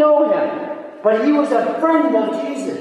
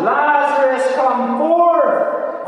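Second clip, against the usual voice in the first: a touch of commanding authority, slightly raised; authoritative voice; 2 semitones higher, much slower than usual. Retold or imitated. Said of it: "That's his authoritative voice".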